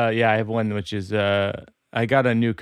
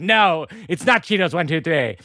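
higher, mildly exasperated machine; scolding computer; 4 semitones higher than usual. Acted. Computer refusing owner's password guess, mildly scolding. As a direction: reject it with a touch of mock impatience.

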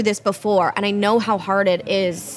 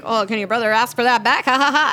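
imitated uneasy joking. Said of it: "he makes a joke".

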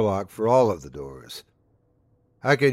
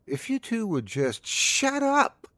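high, drawn-out exasperated cry, not full volume; hollered ending; 13 semitones higher than usual. A narrator's reading. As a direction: build slowly to a high-pitched holler. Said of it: "Lena hollered the last".

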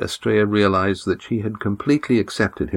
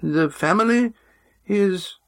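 put-on high, firm old man's voice; an old patriarch speaking with authority; 13 semitones higher than usual. A narrator's reading. Old man opening the family meeting, firm. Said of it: "his thin old man's voice was firm".

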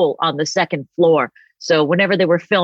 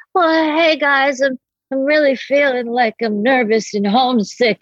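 mock homesick self; 7 semitones higher than usual. Calling her parents from New York, timid high homesick voice. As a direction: play your young self calling home, small and pleading. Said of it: "where I'd be like".

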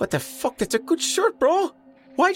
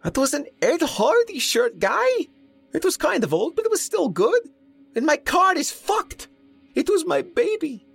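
very high, whiny, overwrought babble; shocked, high-pitched wailing ramble; babbling in shock; 4 dB louder than usual. A narrator's reading. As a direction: spill out grievances near hysteria. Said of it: "Mo was babbling".

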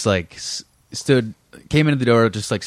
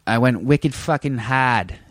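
put-on a light Boston accent, slowed down; a mild put-on Boston accent; slower than usual. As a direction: drop the r's Boston style. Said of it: "Boston accent is more like".

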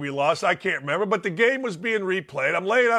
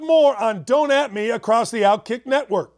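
show break tease; 3 semitones higher than usual. Acted. Host throws to break.

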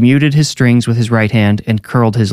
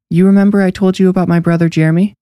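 put-on high, quick little-girl voice; a child's fast question, pitched well up; young girl; 9 semitones higher, faster than usual. A narrator's reading. Neve asking Bee about her brother, high girlish voice.

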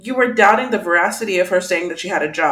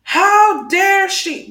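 slow, drawn "How dare she" pitched up; mock outrage; 8 semitones higher, much slower than usual. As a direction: stretch out scandalized disbelief. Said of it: "Aaron would not".

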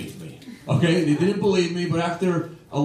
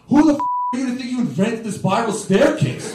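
mildly heated retort, pitched up; snapping back; 5 semitones higher than usual. Retold or imitated. Comic yelling back at small-town hecklers who booed him, snapping. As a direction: throw it back at a booing crowd, indignant. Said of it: "I start snapping and yelling back at them".

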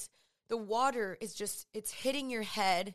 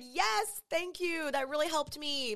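sarcastic thanks; 5 semitones higher than usual. Retold or imitated. Mocking unhelpful comfort.

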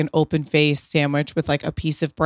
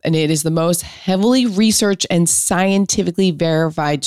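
brisk upbeat sponsor read. Acted. Host reading a sponsor ad to listeners, upbeat ad voice. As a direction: sell the supplement with energy.

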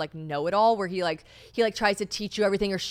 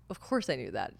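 smug put-down; 6 semitones lower, 6 dB quieter than usual. Retold or imitated. Quoting smug older guy.

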